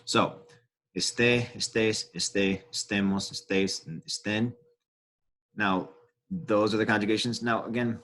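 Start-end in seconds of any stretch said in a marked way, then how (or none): 1.0-4.5 "esté, estés, estén" with the stress landing on the last syllable; stressed accented syllable. Shown as a demonstration. Teacher reciting Spanish accented verb forms, stressing the marked syllable. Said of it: "we actually stress this syllable".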